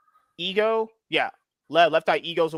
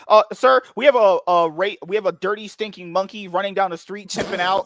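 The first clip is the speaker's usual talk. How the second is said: police dispatcher; 2 semitones higher, 3 dB louder than usual. Pretend. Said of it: "I would be the most racist dispatch person ever".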